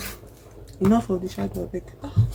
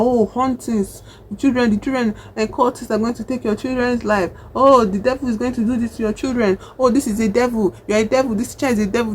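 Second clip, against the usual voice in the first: higher-pitched alarmist imitation; mock religious panic; 4 semitones higher than usual. Believers warning parents about the devil, mock panic. Mimics seventies religious frenzy.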